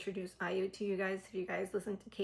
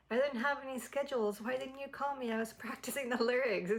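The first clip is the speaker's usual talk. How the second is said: mock complaint, slightly higher; playful teasing; 4 semitones higher than usual. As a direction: tease with a light laughing protest. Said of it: "He was teasing I U".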